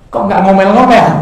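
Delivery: puzzled husband. Retold or imitated. Husband asks wife, puzzled.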